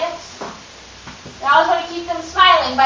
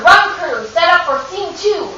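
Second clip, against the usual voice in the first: stage cue call; 4 semitones higher than usual. Shown as a demonstration. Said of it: "until you hear".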